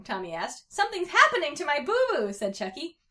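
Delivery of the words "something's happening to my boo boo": put-on high, loud kid wail; hammed-up distressed child; alarmed. A narrator's reading. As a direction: panic about your injury, pitched up. Hurt child alarmed at his injury.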